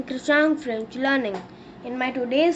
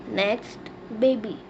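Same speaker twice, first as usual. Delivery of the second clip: normal talking voice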